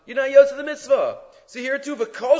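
loud, high punch on the ruling; emphatic. Real, not acted. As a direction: declare it with full force. Rabbi stressing the ruling.

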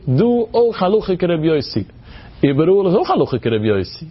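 table-thumping ruling with "auch" stressed; emphatic insistence. Retold or imitated. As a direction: insist firmly, leaning on "auch Haluche". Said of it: "er geht da klappen Tisch".

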